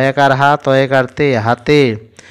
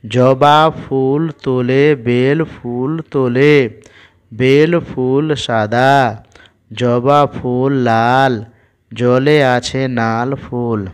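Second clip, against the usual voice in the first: put-on slow, careful reading for young learners; syllable by syllable classroom reading; slow reading aloud; slower than usual. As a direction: read each word out slowly for a child.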